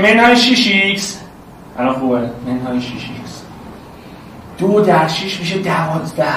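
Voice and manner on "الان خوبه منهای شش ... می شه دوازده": much softer and lower, holding back the voice; hushed teacher voice, trying not to yell; quiet. Shown as a demonstration. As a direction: speak gently so it doesn't sound like shouting.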